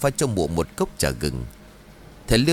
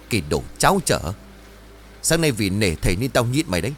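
furious scolding; 2 semitones higher, faster than usual. Acted. Chín scolding the greedy Trang, furious. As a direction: tear into her, spitting fury. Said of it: "nghiến răng rồi bảo".

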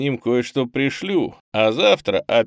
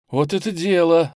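put-on louder, higher burst of boyish glee; light up with sudden eagerness; perking up; 7 semitones higher, 5 dB louder than usual. A narrator's reading. Pioneer boy brightens at the plan to help. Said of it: "оживился пионер".

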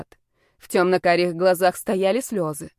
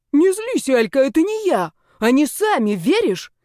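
much higher, louder whiny plea; pleading brother; 6 semitones higher, 4 dB louder than usual. Acted. Brother pleading with his angry sister, higher whiny plea. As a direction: beg her not to be angry.

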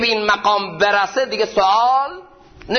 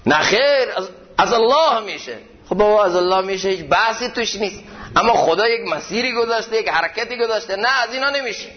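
mock objector; 4 semitones higher than usual. Mocking an objector's argument.

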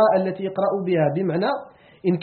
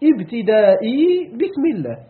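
slow dictation. Shown as a demonstration. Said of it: "التقدير".

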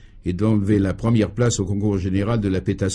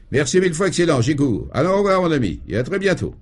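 eager thanks; 6 semitones higher than usual. Acted. Cheerful thanks and farewell.

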